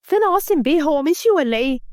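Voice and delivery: a touch of a worried friend calling out; friend calling her awake. Acted. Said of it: "فضلت تفوق فيها".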